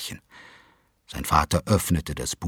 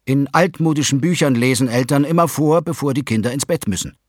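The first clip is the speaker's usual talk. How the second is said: put-on higher, hopeful boy; child's voice; 6 semitones higher, 5 dB louder than usual. A narrator's reading. Tim asks parents for a story, higher and hopeful. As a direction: ask shyly like a child. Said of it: "sagte Tim".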